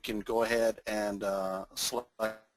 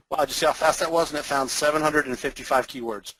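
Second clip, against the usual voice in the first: excited; 4 semitones higher, 5 dB louder than usual. Real, not acted. Showing off a fast tool.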